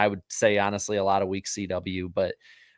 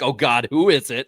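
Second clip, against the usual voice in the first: viewer's mock dread; 5 semitones higher, 7 dB louder than usual. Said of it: "And then you're like".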